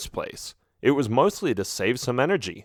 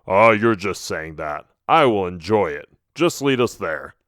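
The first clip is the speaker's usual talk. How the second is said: low Boris voice; 4 semitones lower than usual. Acted.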